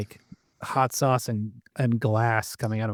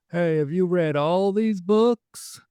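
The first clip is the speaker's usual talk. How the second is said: creepy slow come-on; 4 semitones higher, slower than usual. Acted. Clinton chatting up girl.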